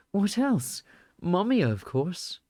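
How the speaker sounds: tall man's calm voice, slow; voiced as the tall man. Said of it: "I did that in his voice".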